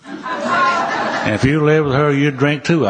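high, laughing, slow joking line about the wife; laughing retort. Retold or imitated. Man telling the preacher why he drinks, laughing and high. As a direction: laugh it out like a wry excuse.

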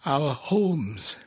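put-on high, pleading old rabbi; a humble old rabbi begging to be heard; elderly rabbi voice. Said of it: "I'll do both voices of the rabbi".

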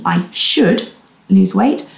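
"should" stressed, then a brief pause. Shown as a demonstration. Coach contrasts thoughts for listeners, stress on "should". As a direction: set "should" apart with emphasis. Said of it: "emphasis on the word should".

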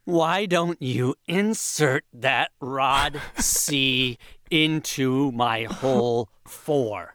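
very slow, sultry-ish read; slow seductive line reading. Acted. Actor reads for Shelf to the casting director, slow and sultry. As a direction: drag every word like a bad romantic lead.

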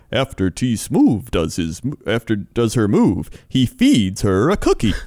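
low, slow impression of a weird narrator; creepy narrator. Retelling the Cheaters voice-over, creepy narrator impression. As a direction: imitate a creepy TV voice-over, drawn out. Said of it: "this guy narrating it is, like, one of the weirdest, creepiest narrators".

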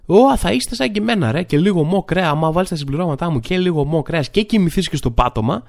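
lightly hammed-up supplement salesman; mock influencer pitch. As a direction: jump in high, selling it to followers. Mimics influencer pitching supplements to followers.

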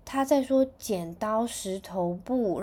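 slow, offhand, like it's obvious; casually explaining to Mom, as if nothing special; matter-of-fact. Retold or imitated. Big brother explains the baby's words to Mom, slow and matter-of-fact. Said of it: "非常稀松平常说".

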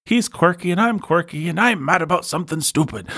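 sing-song parody of cosy British TV; mock twee Brit. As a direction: send up a quirky villager gushing. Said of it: "it's just always like".

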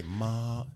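"ma" held long and level; imitating a tone teacher's drawn-out, level "ma"; teacher's first tone. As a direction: demonstrate a steady, flat "ma". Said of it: "trying to teach tones".

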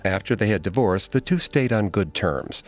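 measured, ominous story narration; true crime narrator. A narrator's reading. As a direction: tell it like a true crime documentary. Co-host continues dramatic narration.

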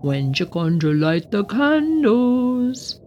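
a lightly voiced sly goblin. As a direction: ask it like a curious little goblin. Goblin voiced in read story.

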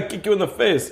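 lightly voiced washed-up action star; Claude Beaudoin. Claude threatening Hank in their argument, mock action-star voice. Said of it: "And Claude Beaudoin would be like".

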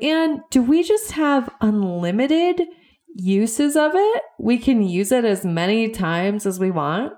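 put-on high, wondering old-aunt voice; imitating aunt. Aunt asking her niece if Wi-Fi is unlimited, high and wondering. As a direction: lift the pitch like a sincere, puzzled aunt. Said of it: "And then she's like".

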